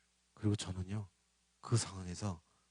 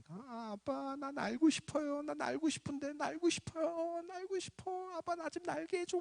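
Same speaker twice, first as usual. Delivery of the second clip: very high, soft mock child wail; wailing child spirit; 12 semitones higher, 7 dB quieter than usual. Spirit child begging dad for flight, high imitated wail.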